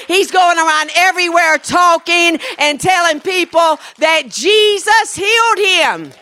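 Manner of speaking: loud, high-energy testimony building to a shout; excited retelling. Retold or imitated. Country pastor reporting a deaf man's healing, excitedly building.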